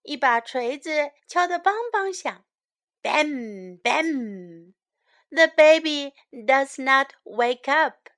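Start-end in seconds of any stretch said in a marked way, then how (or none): 3.0-4.7 hammer banging. Acted. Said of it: "A hammer bangs".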